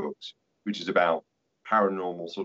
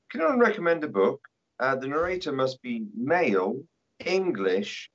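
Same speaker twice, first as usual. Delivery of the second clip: lightly mocking forum poster, higher; listener asking; 6 semitones higher than usual. Listener in a Facebook group asks, mock high. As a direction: quote a picky listener's request, pitched up. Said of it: "they'll say things like".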